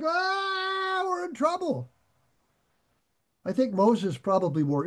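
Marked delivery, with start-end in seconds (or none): 0.0-1.9 mock panic. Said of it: "And now they're like".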